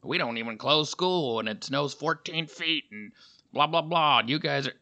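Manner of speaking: lightly imitated know-it-all boasting; a touch of smug bluster; cocky mock newcomer. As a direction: brag like a cocky transplant, mildly mocking. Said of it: "they're all cocky".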